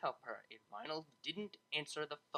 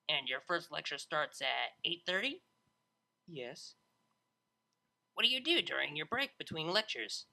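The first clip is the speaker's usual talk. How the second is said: brash DJ voice. Acted. Vinyl voiced in story.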